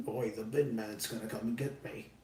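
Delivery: softly attempted British accent; amateur British accent, kept fairly quiet. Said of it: "That was my best British accent".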